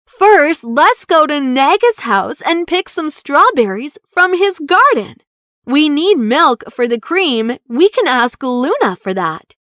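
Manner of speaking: a little chef rallying his friends; eager Bongo. Acted. Bongo plans the rescue.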